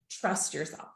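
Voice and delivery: retold heartfelt message. Retold message that hit home.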